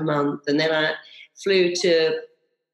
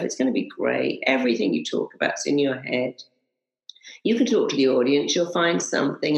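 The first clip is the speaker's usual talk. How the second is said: reassuring self-talk; 4 semitones lower than usual. Retold or imitated. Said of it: "I just told myself".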